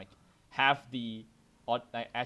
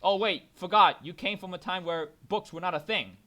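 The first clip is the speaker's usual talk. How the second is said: mocking retort; 6 semitones higher, 10 dB louder than usual. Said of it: "I'm like".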